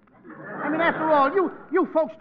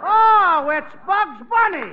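surprised; 8 semitones higher, 9 dB louder, slower than usual. Acted. Surprised recognition on phone.

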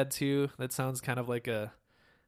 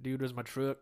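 Southern dude drawl. Retold or imitated.

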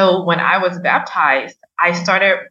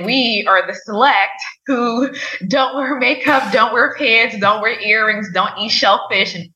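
higher, sing-song mock of the chosen few; mocking self-righteous church; 4 semitones higher than usual. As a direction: poke fun at the rules she grew up with. Mocking her old church's beliefs.

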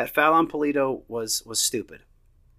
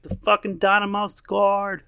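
higher, slow, a bit louder mock outburst; dad answering his daughter, higher excited mock outburst; excited retelling; 8 semitones higher, 4 dB louder, slower than usual. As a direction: relive the moment the team scored. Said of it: "And I was like".

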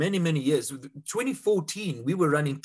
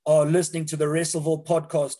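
booming ringmaster intro, higher and louder; 4 semitones higher, 4 dB louder than usual. Acted. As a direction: announce it like a circus ringmaster. Ring announcer intro.

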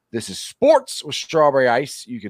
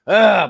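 frustrated groan; 5 semitones higher, 6 dB louder than usual. Retold or imitated. Acts out frustration at mistake.

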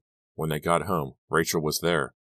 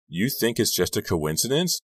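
incredulous; 6 semitones higher than usual. A narrator's reading. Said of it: "Dawn asked incredulously".

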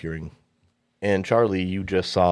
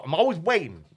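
impatient woman; 11 semitones higher than usual. Acted.

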